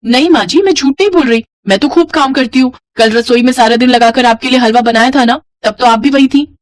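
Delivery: lying daughter-in-law. Acted. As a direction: plead innocence to get out of trouble. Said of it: "झूठ बोलकर बचने की कोशिश की".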